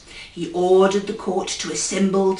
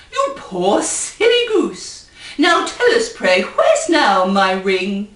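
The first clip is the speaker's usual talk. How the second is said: crying queen; 3 semitones lower than usual. Acted. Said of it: "cried the queen".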